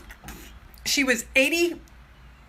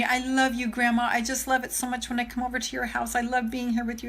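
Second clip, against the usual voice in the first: softer, tender voice of a little grandson; soft grandchild quote; 6 dB quieter, faster than usual. Retold or imitated. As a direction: say it gently like a small boy. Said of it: "he just says to me".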